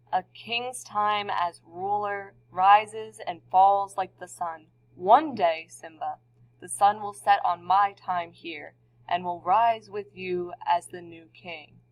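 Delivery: slow, lightly voiced wise king father; a mild, grave king explaining to his son, slowly; a hint of Mufasa. Teacher voices Mufasa to Simba.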